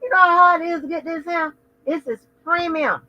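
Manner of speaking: high, fast sassy voice. Retold or imitated. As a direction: snap it with sass. Mock arguing over her hair.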